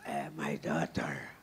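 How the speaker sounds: very low, slow imitation of a jazzman; deep, drawn-out impersonation, taking its time. Trumpeter addressing the singer backstage, imitated very deep and slow. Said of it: "Aí ele disse".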